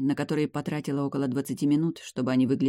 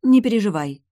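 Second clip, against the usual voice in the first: Не переживай, higher and louder, brushing it aside; waving it off; 7 semitones higher, 8 dB louder than usual. Acted. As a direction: dismiss her worry breezily. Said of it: "отмахнулась я".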